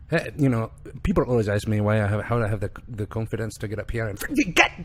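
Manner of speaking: imitated Irish accent; light Irish accent, retelling his words. Host quoting a kid with Tourette's, in an Irish accent. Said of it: "That's a very good accent".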